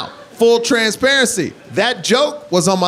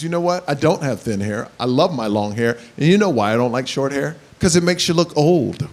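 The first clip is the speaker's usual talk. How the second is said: wife's comeback; 6 semitones lower than usual. Retold or imitated. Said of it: "My wife walks up to my mom and goes".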